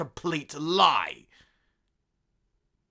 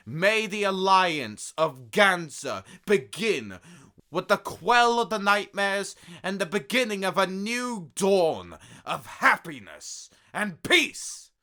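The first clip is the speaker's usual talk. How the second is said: grand speech; 6 semitones higher, 4 dB louder than usual. Acted. Emperor closing his speech to his companions, grandly. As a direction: proclaim it like a ceremony. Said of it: "Excellent speech there".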